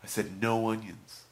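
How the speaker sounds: loud, slow, insistent complaint; mock outrage, drawn out and loud; angry customer. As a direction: imitate an irate customer spelling it out. Imitating the angry customer repeating himself.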